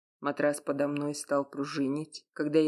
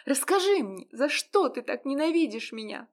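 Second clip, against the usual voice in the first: much higher, louder, a woman railing at him; tearful furious shouting; 12 semitones higher, 4 dB louder than usual. Acted. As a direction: hurl the insults at him. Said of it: "закричала она". (гневный крик сквозь слёзы)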